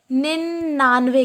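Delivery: निन्यानवे said ninn-aanve, without the y-glide; alternative pronunciation. Shown as a demonstration. Teacher shows the other form to students, pronounced without the y-glide. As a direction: drop the 'y' in निन्यानवे, holding the nn. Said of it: "या फिर क्या कहते हैं".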